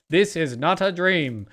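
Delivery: slow, measured transmission voice; slowly dole out a recorded broadcast; imitated eerie transmission. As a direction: lightly mimic a spaced-out warning message. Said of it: "this really cool audio effect".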